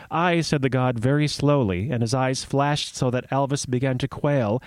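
measured myth storytelling; story narration. Acted. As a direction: read it like a fireside tale.

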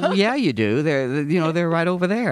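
mock-exasperated customer pointing it out; insistent correction. Insisting to deli clerk.

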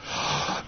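sharp breathless gasp of shock; mock shocked gasp. Retelling the faculty member's reply, mock shocked gasp. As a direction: gasp as if scandalized. Shocked reaction in retold story.

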